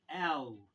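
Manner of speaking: एल said slowly and loud, held long; slow loud एल demo; stretched letter. Shown as a demonstration. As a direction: draw out एल. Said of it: "इसी तरह".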